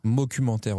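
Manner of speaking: "Documentaire" said as "mocumentaire", with an M sound at the start; saying mockumentaire. Shown as a demonstration. Suggesting the word mockumentaire to his co-host. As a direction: swap the D of "Documentaire" for an M. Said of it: "Tu peux dire aussi documentaire".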